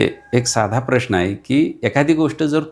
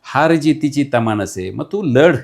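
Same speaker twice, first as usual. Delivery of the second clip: fiery declamation; 3 semitones higher, 3 dB louder than usual. Acted. Declaims closing lines loudly.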